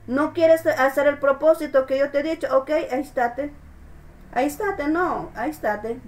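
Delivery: God's patient voice. Acted. God speaking to stubborn believer.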